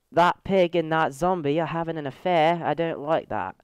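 playful mock-British lilt; British accent. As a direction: put on a light British accent. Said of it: "if I say that in a British accent".

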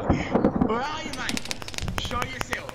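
mock Australian. A gamer taunting a hiding player in mock Australian. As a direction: call out a hiding enemy in a put-on Aussie voice. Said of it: "hiding like a little fucking wallaby".

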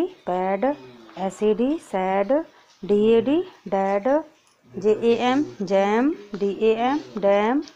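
teacher to kindergarten class, spelling then reading short a words; short a sound drill. Shown as a demonstration. क्लास को छोटी ए ध्वनि सिखाते हुए. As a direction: spell each letter, then say लैड, पैड, सैड, डैड with a short a. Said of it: "ये तो आपके short sound के हो गए".

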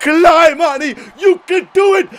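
high, loud egging-on shout; urgent cheering on. Real, not acted. Gamer urging Arnie up the ladder, loud shout. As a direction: urge him up with all you've got.

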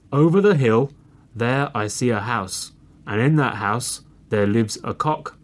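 lightly voiced gruff old fox; big gruff voice. Big bad fox tells his hungry cubs, lightly gruff. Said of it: "in a big gruff voice".

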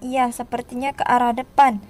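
calm low-pitched confirmation; older sibling reply. Pretend. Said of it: "Tadi sepertinya ke arah depan".

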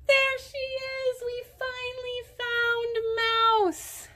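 high, loud happy discovery; excited. Acted. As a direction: cheer for the kids. Mouse finally found.

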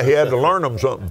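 quick, folksy West Texas dialect; West Texas twang. Real, not acted. Joking with brother preacher about his native tongue, West Texas twang. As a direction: lapse into West Texas talk through a laugh. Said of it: "Just kinda lapsed back to my native tongue".

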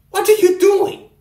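loud what-are-you-doing; exasperated loud question. Real, not acted. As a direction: call him out, annoyed. Confronting a friend.

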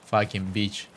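"Fucking beach" with a Russian accent, short i. Shown as a demonstration. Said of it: "I can only say it in Russian".

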